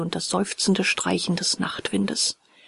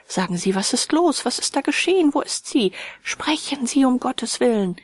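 higher, pressing, frightened questions; anxious urgency; 5 semitones higher than usual. Acted. Narrator urges the professor to tell him, anxious and higher. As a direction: demand the news, fearing the worst.

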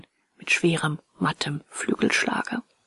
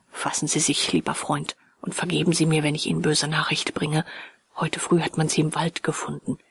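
gentle, grave; 4 semitones lower than usual. Acted. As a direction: break the bad news carefully. Professor breaks bad news gently.

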